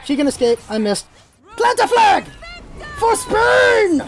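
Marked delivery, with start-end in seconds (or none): 1.6-4.0 high, triumphant call; battle cry. Pretend. Gamer planting a flag for Spain, battle cry. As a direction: cry it out like a charge.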